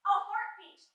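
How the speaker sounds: high, loud eureka burst; stagey excited discovery; sudden realization. Acted. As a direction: cry out as the idea hits.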